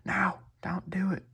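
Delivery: high, drawn-out rural lady's voice; impersonated country accent. Retold or imitated. Lady yelling at the dude not to deal, mock country accent. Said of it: "that's my, uh, impersonation of her accent".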